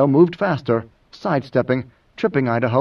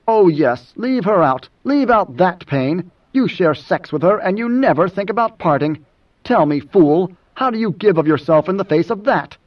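higher, heated sarcasm; scornful echo; 4 semitones higher than usual. Acted. Moneo attacks Idaho's hypocrisy, scornful. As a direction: throw the words back with bitter scorn.

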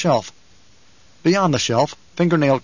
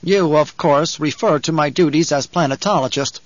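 stiffly; 2 semitones higher than usual. Acted. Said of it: "Kynes spoke stiffly".

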